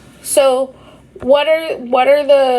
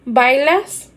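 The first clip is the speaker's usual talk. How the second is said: "¿Bailas?" with the end rising; rising question tune. Shown as a demonstration. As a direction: ask "¿Bailas?" lifting the last syllable. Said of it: "use your intonation".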